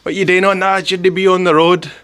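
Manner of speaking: high-pitched mock police scolding; shouting policewoman. Tiny policewoman ordering a rider off his bike, mock shouting. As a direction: imitate an officer yelling across the road. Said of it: "starts shouting halfway across".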